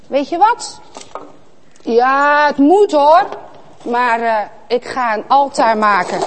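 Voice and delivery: reluctant Kaïn. Acted. Kaïn grudgingly deciding to build an altar. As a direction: grumble it like a boy doing a chore.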